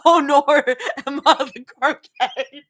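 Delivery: exaggerated Aussie vowels, laughing; bad Australian accent. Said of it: "read in a best Australian accent".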